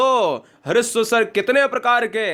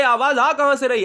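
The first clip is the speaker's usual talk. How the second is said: puzzled student; 6 semitones higher, faster than usual. Retold or imitated. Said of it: "तो आप कहोगे".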